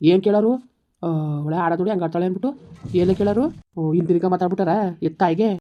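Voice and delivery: loud, furious retort; angry yelling. Acted. Husband shouts back at his wife in a family quarrel, angry. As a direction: shout her down.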